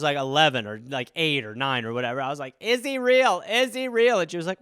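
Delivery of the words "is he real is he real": put-on higher, insistent kid questioning; badgering child. Kid badgering mother about Santa, insistent. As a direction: pester like an eager child. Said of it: "badgering her when I was".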